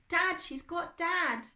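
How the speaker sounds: slow, high, anguished cry; tearful. A narrator's reading. Boy explaining to his friend, tearful. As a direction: break down as you say it. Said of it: "he couldn't stop the hot tears".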